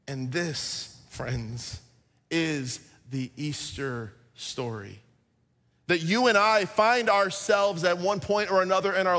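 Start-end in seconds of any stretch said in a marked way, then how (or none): 0.1-5.0 soft and slow, drawn down; hushed climax. Real, not acted. Preacher tells the congregation the Easter message, hushed. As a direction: lower the voice to deliver the point.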